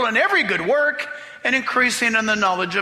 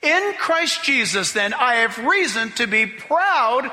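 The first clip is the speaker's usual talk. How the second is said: slow emphatic reading; slower than usual. Shown as a demonstration. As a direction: read slowly, driving to worship. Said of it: "I'm gonna read it different".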